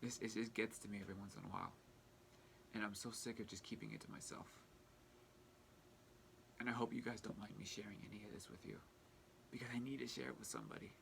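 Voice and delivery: soft, subdued confiding; real, hushed emotional admission. Real, not acted. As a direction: confide it quietly, holding the feeling in. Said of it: "one of the most emotional states".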